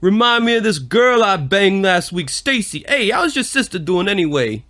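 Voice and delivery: high, brash New York tough guy; Rocky impression. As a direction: play a swaggering Italian-American boxer. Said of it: "You're trying to do Rocky?".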